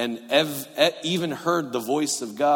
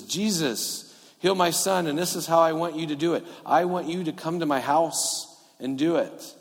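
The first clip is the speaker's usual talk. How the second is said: higher-pitched, insistent request; insistent instructions; 3 semitones higher than usual. Acted. Official telling Jesus how to heal his son, insistent. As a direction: plead while spelling out exactly how. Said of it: "gives Jesus very specific instructions".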